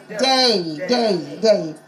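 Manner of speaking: "Day" repeated alone with firm stress; three separate, emphatic takes of "Day"; stressed syllable isolated. Shown as a demonstration. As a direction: hammer out "Day" as a single syllable. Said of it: "give me the syllable".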